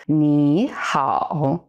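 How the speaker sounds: very slow ni hao, both syllables dipping then rising; ni hao, falling-rising tones. Shown as a demonstration. Teacher demonstrates hello in Mandarin, very slow and deliberate. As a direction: stretch ni and hao, dip down then up. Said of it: "Ni with a falling rising tone".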